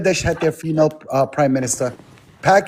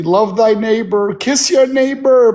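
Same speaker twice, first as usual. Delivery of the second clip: slow mocking sing-song, rising higher; 4 semitones higher, slower than usual. Mocking her Christian talk.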